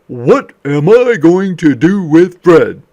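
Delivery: dad sick of losing his socks; exasperated dad. Acted. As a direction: sigh it out as the tired dad. Dad voiced in story.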